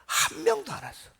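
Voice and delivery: 훨씬 높고 크게 터뜨리는 허탈함; 기대가 와르르 무너진 듯 외치기; 허탈한 외침. Real, not acted. Punchline of the failed evangelism. (높고 크게 허탈하게)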